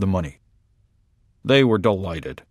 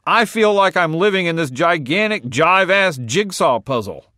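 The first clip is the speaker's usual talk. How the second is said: high aggrieved complaint; 7 semitones higher than usual. Acted. Barty complains.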